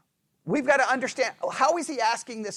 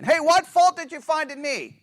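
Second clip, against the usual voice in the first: higher, expecting no answer; rhetorical challenge; 5 semitones higher, 3 dB louder than usual. Acted. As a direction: throw out the question as self-evident. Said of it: "believe this is a rhetorical question".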